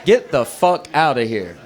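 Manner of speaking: slow, emphatic navigation warning; nervous phone assistant, mock urgent and drawn out; Siri. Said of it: "Even Siri got nervous".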